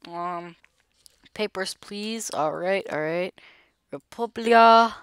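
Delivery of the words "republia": raised, slow country name; playful proclamation. Pretend. Player reads country on passport, raised slow proclamation. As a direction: call out "Republia" high and drawn out.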